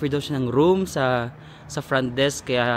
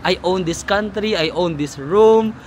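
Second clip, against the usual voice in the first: lightly imitating an arrogant old man, slow; a touch of haughty; mock superior; 3 semitones higher than usual. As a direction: play the entitled guest. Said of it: "Parang feeling niya".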